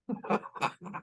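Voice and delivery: high, soft burst of laughter; quick soft giggle. Real, not acted. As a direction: laugh at her falling off the bike. Laughing at Tina's fall.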